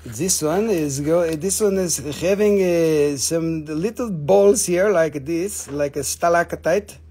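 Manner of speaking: playful mock English accent; put-on English accent. Seller showing little balls on a stone, mock English accent. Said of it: "if you're talking in your English accent".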